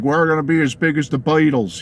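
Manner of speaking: hint of a Cockney accent; a singer. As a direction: lightly imitate a Cockney accent. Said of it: "said in his Cockney accent".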